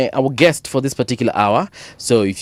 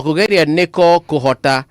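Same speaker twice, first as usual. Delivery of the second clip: Kikuyu accent; 2 semitones higher than usual. Shown as a demonstration. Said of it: "forgive my accent, eh? My Kikuyu accent".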